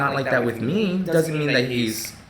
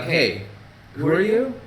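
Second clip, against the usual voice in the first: pitched-up mock indignation; mock offended surprise; 4 semitones higher than usual. To the friend's stranger pal, mock offended who are you. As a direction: act put out by a stranger's cheek.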